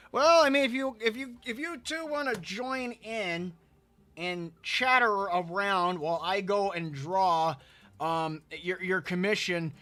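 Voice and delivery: put-on light drawling southern accent, playful. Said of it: "talking in a southern accent".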